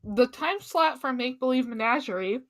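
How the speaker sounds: talking with a mouth full; chewing food while speaking. Real, not acted. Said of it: "I'm talking with my mouth full".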